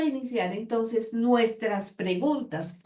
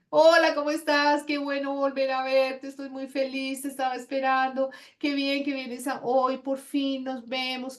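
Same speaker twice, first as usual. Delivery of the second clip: too euphoric greeting; 4 semitones higher than usual. Shown as a demonstration. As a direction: overdo the joy of the greeting. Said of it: "no ser así eufóricos". (saludo demasiado eufórico)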